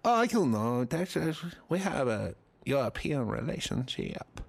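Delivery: a hint of a hammed-up Spanish accent; lightly put-on Spanish accent. Comic imagining Penelope Cruz answering him, Spanish accent. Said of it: "That's my Spanish accent".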